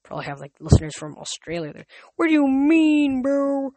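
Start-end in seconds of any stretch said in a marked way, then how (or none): 2.2-3.7 dude voice. Pretend. Mock dialogue to listeners.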